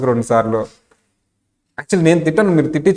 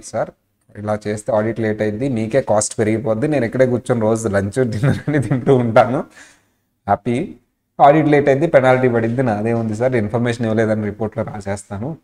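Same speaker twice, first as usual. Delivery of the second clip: smooth calm reply; 3 semitones lower than usual. Shown as a demonstration. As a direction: say it smoothly, no shouting. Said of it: "అలా చెప్పాలి స్మూత్గా, అరవకూడదు".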